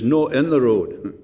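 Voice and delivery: slow, lightly imitated Scots accent. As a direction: quote him slowly with a touch of Scots. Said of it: "then in his Scots accent".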